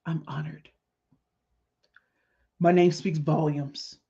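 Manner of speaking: choked up, with long pauses; holding back tears. Real, not acted. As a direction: get it out slowly, trying not to cry. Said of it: "I'm trying not to cry".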